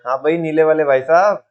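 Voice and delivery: leg-pulling singsong, words drawn out; teasing drawn out. Shown as a demonstration. Teacher demos a tone change to students, teasing and drawn out. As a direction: stretch the words into a mocking tease. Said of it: "कोई चीज को खींच के बोल दिया जाए".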